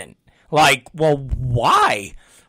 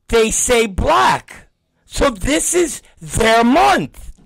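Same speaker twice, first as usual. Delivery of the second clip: put-on higher, slow patient kid explaining; mock child voice, earnest; kid's voice; 4 semitones higher, much slower than usual. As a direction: explain slowly like a child lecturing dad. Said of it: "I said".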